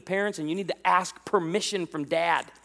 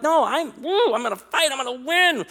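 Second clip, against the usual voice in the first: retold fighting spirit; 6 semitones higher, 3 dB louder than usual. Young suitor psyching himself up.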